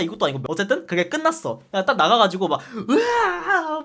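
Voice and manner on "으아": anguished scream. Retold or imitated. Retold agony after gas chamber.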